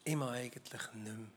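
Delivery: whispered, worn out and done; exhausted whisper. Acted. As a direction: breathe it out like someone who has given up. Preacher voices exhausted person. (erschöpft geflüstert)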